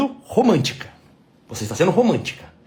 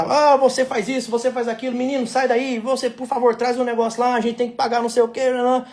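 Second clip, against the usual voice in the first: higher, mock commanding voice; bossy orders; 6 semitones higher than usual. Husband imitating his wife bossing repairmen, higher mock orders. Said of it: "o tom dela muda completamente".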